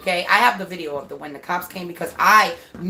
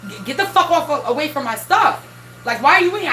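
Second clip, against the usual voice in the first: retold son bugging out; 5 semitones higher, faster than usual. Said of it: "he started bugging".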